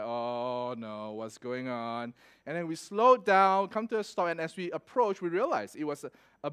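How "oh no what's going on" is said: low, slow, soft worry; hushed dismay. Retold or imitated. Driver seeing cars all lined up, hushed dismay. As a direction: drop the voice into mock dread.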